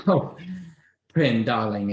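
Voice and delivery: mother greeting her daughter with wine in hand; gushing mother. Acted. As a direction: call out like a tipsy socialite.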